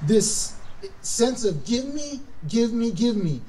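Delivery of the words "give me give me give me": a hint of a whiny greedy child, pitched higher; greedy demand. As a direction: beg greedily, over and over. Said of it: "a sense of entitlement".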